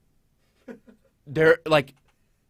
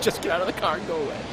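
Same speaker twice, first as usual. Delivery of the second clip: mock Stephanie to kid; 4 dB quieter, faster than usual. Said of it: "She tells her kid".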